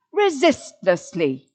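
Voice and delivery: "resistlessly" slowly, punching "sist"; syllable by syllable. Shown as a demonstration. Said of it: "four syllables".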